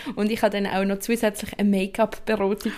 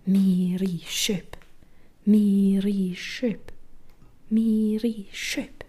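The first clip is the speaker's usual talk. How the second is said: slow ringing-tone voice; drawn out like a phone ringing; imitating phone ring; much slower than usual.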